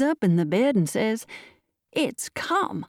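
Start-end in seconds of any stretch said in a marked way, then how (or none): 1.9-2.8 put-on dying old man's high gasped announcement; high, halting, awed cry. A narrator's reading. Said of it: "cried the aged man".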